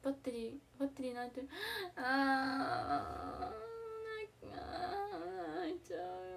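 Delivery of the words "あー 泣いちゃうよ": slow, tearful lament; slowly welling up on the verge of crying; close to tears. Real, not acted. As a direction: let the voice break as tears come.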